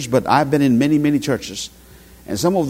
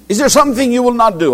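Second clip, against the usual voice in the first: big voice father; 7 semitones higher, 3 dB louder, faster than usual. Retold or imitated. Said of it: "a big voice. This is how he will speak".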